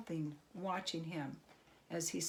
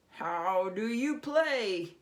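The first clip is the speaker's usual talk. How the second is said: eager goblin; 3 semitones higher, 6 dB louder, slower than usual. Acted. Goblin eager about money.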